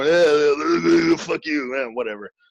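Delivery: slow glam-metal rocker drawl with stretched-out uhs. Contrasting two bands' styles: imitating one of the bands. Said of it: "that band is more".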